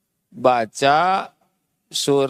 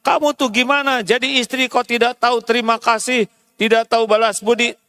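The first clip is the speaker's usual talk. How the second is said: mock nagging husband; 4 semitones higher, faster than usual. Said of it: "tidak usah ngomel, marah-marah".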